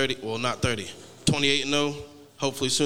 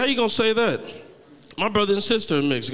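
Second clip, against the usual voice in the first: louder, higher outraged protest at mom; indignant yell; 8 semitones higher, 5 dB louder than usual. Retold or imitated. Son yelling at his mom over her racist advice, higher and louder. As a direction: throw the question back at her, offended. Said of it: "I was like".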